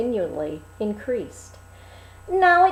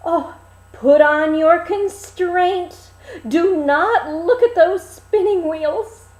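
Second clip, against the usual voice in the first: urgent princess; 7 semitones higher, 6 dB louder than usual. Acted. Princess urges her maidens.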